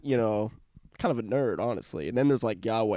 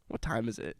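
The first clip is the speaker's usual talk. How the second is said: whisper; 7 dB quieter than usual. Real, not acted. Whispered question between friends.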